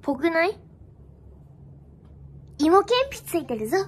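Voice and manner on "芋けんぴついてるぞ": 語尾を上げて知らせる男役の台詞; 普段の高さで軽く男役を演じて; 男の台詞. Acted. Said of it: "それ男がやるやつじゃない？". (軽めの男役)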